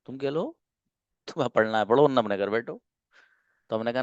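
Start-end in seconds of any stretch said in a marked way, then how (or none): 0.0-2.8 mock haughty Englishman. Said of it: "तो वो कह रहा".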